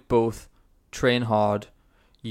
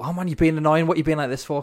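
higher, louder mock grumble; mock annoyed partner; 5 semitones higher, 3 dB louder than usual. Host imagining a shouting partner, higher mock grumble. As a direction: voice an irritated bloke. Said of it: "There's no".

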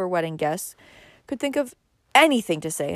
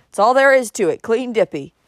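loud, higher, indignant verdict; angry snort; 5 semitones higher, 7 dB louder than usual. A narrator's reading. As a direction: insist on it angrily. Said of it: "he snorted angrily".

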